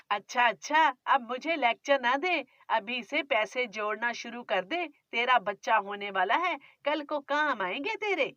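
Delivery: scolding, grumbling mother-in-law; a nagging miser of a mother-in-law; stingy mother-in-law. Acted.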